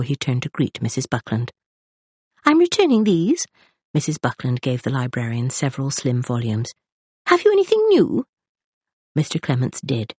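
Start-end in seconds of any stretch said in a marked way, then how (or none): 2.5-3.5 high and louder, businesslike; a fussy lady handing back books; brisk matron. A narrator's reading. Mrs Buckland returns books. 7.3-8.2 very high, louder, eager question; a keen reader wanting more; eager matron. A narrator's reading. Mrs Buckland asks librarian.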